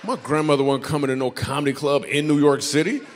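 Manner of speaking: loud, high exasperated rant. Real, not acted. Comedian ranting about why he can't curse, loud exasperated. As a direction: build into a loud comic rant.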